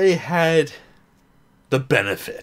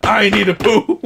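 cheering; 7 semitones higher, 5 dB louder than usual. Real, not acted. Cheering on Pooh during movie.

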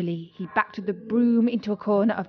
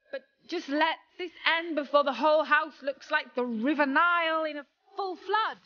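rising pitched-up cry of a plea; desperate plea; 5 semitones higher than usual. Acted. Apprentice begs for the flood to end, high desperate cry. He made this prayer.

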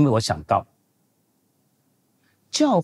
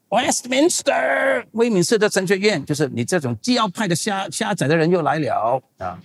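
imitated loud exclamation; 8 semitones higher than usual. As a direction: mimic someone loudly announcing an unwelcome visitor. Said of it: "一看到我就大声说".

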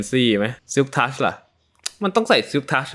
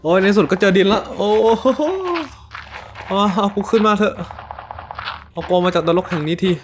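desperate relief; 7 semitones higher than usual. Real, not acted. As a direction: get me out of this hell. Escaping the cave, begging.

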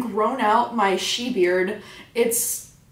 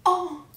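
breathy moan; 8 semitones higher than usual. Real, not acted. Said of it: "that was a sexy sound".

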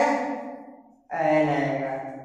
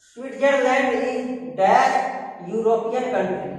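slow exercise reading; much slower than usual. Shown as a demonstration. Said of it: "Fill in the blanks".

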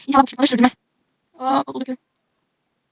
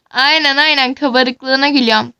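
laughing. Acted. Mocking her frizzy hair.

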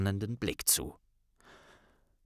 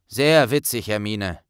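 slightly miffed; 4 dB louder than usual. Acted. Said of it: "entgegnete Ron leicht pikiert".

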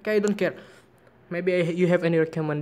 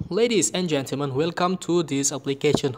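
announcer voice. Shown as a demonstration. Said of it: "record my voice in this application".

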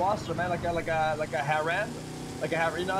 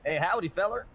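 put-on southern accent. Asked by his partner to do a southern accent, lightly southern. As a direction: greet like a country West Virginia local. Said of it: "Let me hear something".

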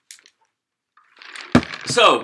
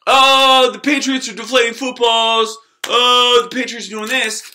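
mocking the haters; 3 semitones higher, 4 dB louder than usual. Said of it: "y'all are out here talking about".

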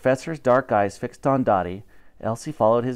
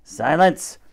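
snapping; 3 semitones higher than usual. Acted. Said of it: "he snapped".

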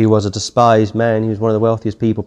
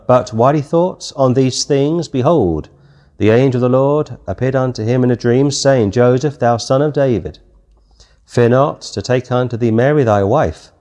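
scripture reading. Acted. Reads scripture aloud.

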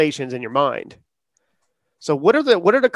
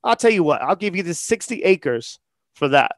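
put-on Southern accent. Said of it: "he has, like, a Southern accent".

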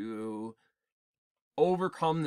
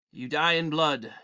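menacing hero; 5 dB louder than usual. Acted. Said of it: "I use Clint Eastwood".

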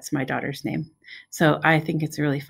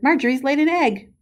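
higher, louder excited announcement; excited cry; 8 semitones higher, 4 dB louder than usual. A narrator's reading. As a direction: tell everyone the astonishing news. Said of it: "he cried".

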